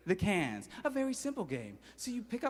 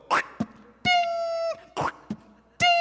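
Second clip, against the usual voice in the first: duck's ding. Acted. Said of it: "Darnell Duck would go".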